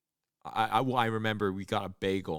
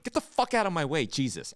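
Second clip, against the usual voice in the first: retold yell; 5 semitones higher, 3 dB louder than usual. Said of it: "I went".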